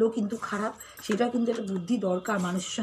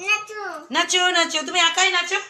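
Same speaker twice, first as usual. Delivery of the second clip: higher, louder playful urging; excited coaxing; 8 semitones higher, 7 dB louder than usual. Real, not acted. Mother urging her toddler to dance, excited and high. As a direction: cheer the little one on to dance.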